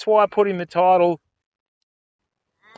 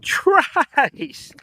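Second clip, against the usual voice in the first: high, loud call of a name; 12 semitones higher, 5 dB louder than usual. Real, not acted. Streamer calling out to a viewer, loud high call. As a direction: shout the name across the room.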